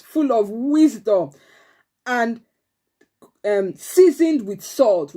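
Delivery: slow, deliberate reading of a Bible verse; slow scripture reading. Shown as a demonstration. Teacher reading the memory verse to the class, slow and deliberate. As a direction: read each phrase out slowly for the children. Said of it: "Let me read it again to you".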